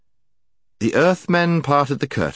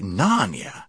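careless. A narrator's reading. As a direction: repeat it with idle puzzlement. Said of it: "he said carelessly".

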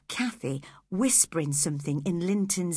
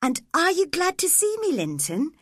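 hopeful; 9 semitones higher than usual. Acted. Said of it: "she asked hopefully".

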